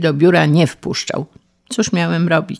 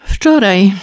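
loud, raised wail of woe; miserable moan; 5 semitones higher, 5 dB louder than usual. Acted. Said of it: "zajęczał nieszczęsny Paleta". (nieszczęśliwy, głośny jęk)

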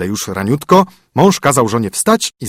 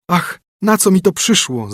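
lament; 8 semitones higher than usual. Acted. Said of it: "zawołała".

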